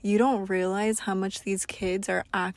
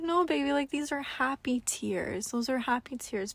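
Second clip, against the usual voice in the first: put-on higher, gentle comforting to a toddler; comforting a crying child, pitched up; tender reassurance; 4 semitones higher than usual. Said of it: "And I was like".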